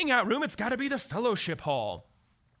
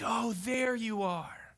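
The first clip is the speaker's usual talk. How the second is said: warm greeting; much slower than usual. Retold or imitated. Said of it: "making the people around you feel like".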